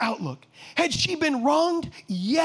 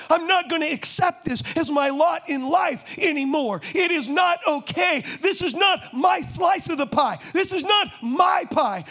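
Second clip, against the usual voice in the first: defiant declaration; 2 semitones higher than usual. Acted.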